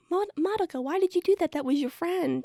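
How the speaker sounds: high-pitched mock reproach; Kyubei. Kyubei asking Madoka about her friend, high reproach. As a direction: pitch it up, scolding in disbelief. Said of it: "and then Kyubei's like".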